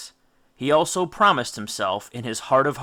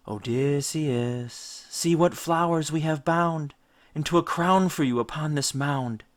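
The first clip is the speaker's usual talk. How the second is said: siren song. Acted. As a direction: lure the sailor ashore with a sweet eerie call. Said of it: "It was a song written in an unnameable key".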